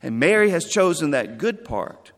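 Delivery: calm her down, but mean it; gently but firmly. Acted. Jesus to the frustrated Martha, gently but firmly. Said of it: "he said it probably gently, but firmly".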